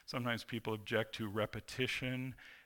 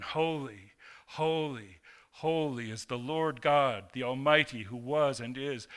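louder, ringing holy, holy, holy; full proclamation; 5 dB louder than usual. Acted. Preacher proclaiming the angels' endless praise, full voice. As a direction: declare it out to the whole congregation.

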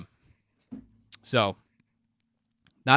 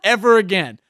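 laughing; 6 semitones higher, 8 dB louder than usual. Real, not acted. Laughs through his own vow.

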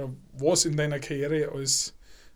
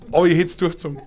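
laughing; 6 dB louder, faster than usual. Real, not acted. Joking he'd have done it.

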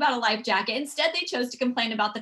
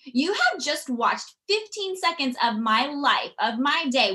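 slow, pointed scolding; mock telling off; 4 semitones higher, slower than usual. To a rude commenter on Instagram, slow pointed scolding. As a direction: put the commenter in her place. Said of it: "I went off".

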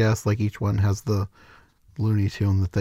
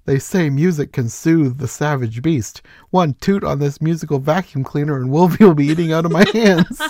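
cartoon duck impression, rising excitement; boastful cartoon duck voice; Plucky voice; 5 semitones higher, 5 dB louder than usual. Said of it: "and he says".

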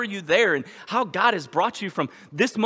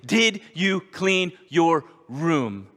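slow gentle question; much slower than usual. Pretend. God's voice repeated.

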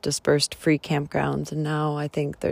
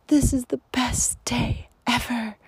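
whispered quote; 6 semitones higher than usual. Retold or imitated. Retelling the little girl on the trail, whispered. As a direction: whisper the child's joy. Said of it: "all I heard was".

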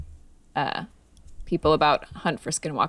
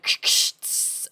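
imitated hypospray hiss; slower than usual. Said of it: "is like".

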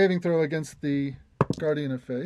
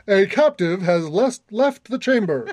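booming alarm announcement; deep booming voice; 5 dB louder than usual. Acted. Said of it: "A deep booming voice says".

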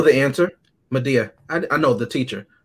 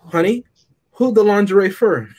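sassy Madea voice; 4 semitones higher than usual. Retold or imitated. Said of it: "this is the woman that said".

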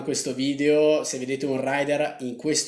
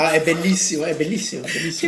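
excited; 3 semitones higher, 5 dB louder than usual. Real, not acted. Touched by the tip photo.

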